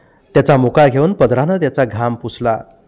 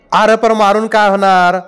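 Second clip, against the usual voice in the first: higher-pitched irritated question; snapping; 6 semitones higher than usual. A narrator's reading. Villager challenging the angry father, snapping. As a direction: ask it in exasperation. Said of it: "आप्पानं खेकसून विचारलं".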